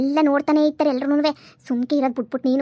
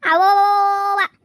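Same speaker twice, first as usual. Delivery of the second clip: high, slow, drawn-out scoff; scoffing exclamation; 7 semitones higher, 4 dB louder, much slower than usual. Acted. Mother-in-law scoffing at her son-in-law, high and drawn out. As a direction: stretch it out in mock disbelief.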